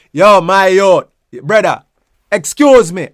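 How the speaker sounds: calling out. Shown as a demonstration. Greeting a male friend in the street, calling out. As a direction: call across the street to a man. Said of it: "You know say".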